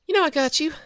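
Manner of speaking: best friend venting her panic after racing over; Kathy relieved and shaken. Acted. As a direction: vent the fright, then settle.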